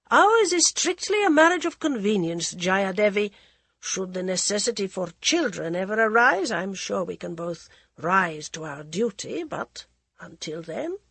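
cool, mocking aristocrat voice; mocking prince. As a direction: sneer it like a bored royal. Prince Pratap coldly explains.

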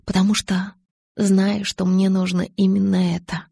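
ordinary delivery, nothing marked

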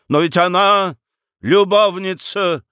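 high, scandalised exclamation; exclaiming. A narrator's reading. Lawyer objecting about Frau Marta, exclaiming. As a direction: cry out in protest, pitched high. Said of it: "воскликнул Рамкомф".

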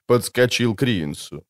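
ordinary delivery, nothing marked

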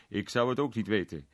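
a touch of a smile in the words; smiling innkeeper. A narrator's reading. Innkeeper answering the pub guests, with a light smile. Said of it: "zei de waard met een glimlach".

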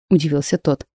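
usual speaking voice

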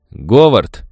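loud sharp call of a name; exclaiming. Acted. Elderly wife calls out to husband, exclaiming. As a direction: stop her husband with one cry. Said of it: "воскликнула пожилая женщина".

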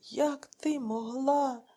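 slow anguished cry; husband crying out over his lost son; cry of despair. Acted. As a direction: stretch each word in grief. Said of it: "у відчаї скрикнув Іван".

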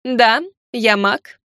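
slow, proud and defiant; proud declaration. Acted. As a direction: lift the chin and declare it slowly. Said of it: "гордо вскинула подбородок и заявила".

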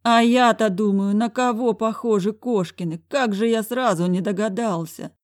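put-on an old man struck by a realization; horrified headmaster; exasperated director. A narrator's reading.

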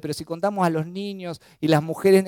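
ordinary talk

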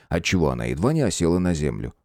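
ordinary delivery

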